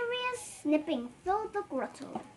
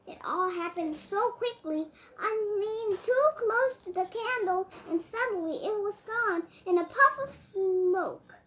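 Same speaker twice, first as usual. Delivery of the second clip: muttering; 2 semitones higher than usual. Acted. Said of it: "Santa was muttering".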